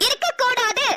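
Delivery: mildly heated, sharp rebuke; angry scolding. Acted. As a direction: put her in her place crossly. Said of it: "தேவையில்லாம கோவப்படுறீங்க". (கோபமாக திட்டுதல்)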